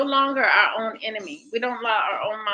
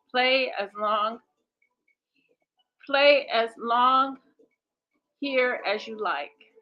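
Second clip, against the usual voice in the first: deliberate read-aloud. Acted. Facilitator reading the exercise to the group, deliberate read-aloud. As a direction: read the instructions out with careful pacing.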